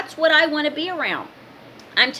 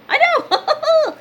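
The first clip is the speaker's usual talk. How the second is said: high, laughing admission; 4 dB louder than usual. Real, not acted. Admitting her green shirt is awful, laughing. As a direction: break into a real laugh on the words.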